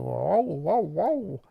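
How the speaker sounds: drawn-out whoas swooping upward; playful whoa. Pretend. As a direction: voice the movement with long, swooping whoas. Voicing the moving graphic.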